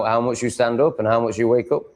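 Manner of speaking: normal talking voice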